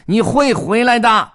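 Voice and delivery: cat shouting after the departing duck, angry. Acted. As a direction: fling it after the duck angrily. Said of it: "猫生气地说道".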